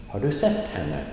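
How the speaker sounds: emphasis only on "sett", "har du" and "henne" light; stress on sett. Shown as a demonstration. Teacher demonstrating sentence emphasis, stressing only "sett". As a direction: punch "sett" and pass lightly over the rest. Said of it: "The emphasis is only on sett".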